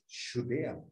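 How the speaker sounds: "chutea" as "shutea", hushing SH first. Shown as a demonstration. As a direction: start "chutea" on a soft SH. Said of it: "Es con S H". ("chutea" con SH en vez de CH)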